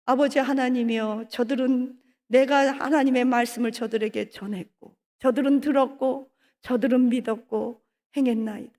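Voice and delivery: praying for them with a breaking voice; tearful prayer. Acted. Jesus praying for disciples.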